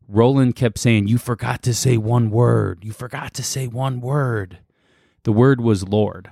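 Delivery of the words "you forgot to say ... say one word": taunting guttural possessed voice. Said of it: "in his guttural voice".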